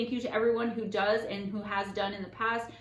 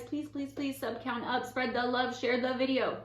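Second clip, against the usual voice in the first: stiff mechanical robot voice; robot voice, pleading; 4 semitones higher than usual. Acted. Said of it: "I just did that in a robot voice".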